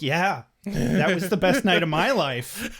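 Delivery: drawn-out, lifted, relishing echo; enthusiastic agreement. Retold or imitated. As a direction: agree wholeheartedly, stretching the words with delight. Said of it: "And I'm like".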